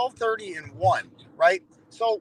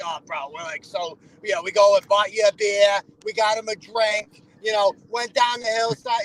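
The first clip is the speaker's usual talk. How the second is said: mock local bro; 3 dB louder than usual. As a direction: sneer at the wannabe tough guys. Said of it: "We don't all talk like this".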